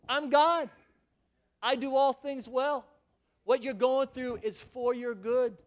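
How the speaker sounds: lightly voiced God, slow and firm; God's voice. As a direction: speak as God, slow and sure. God speaking, louder and slower.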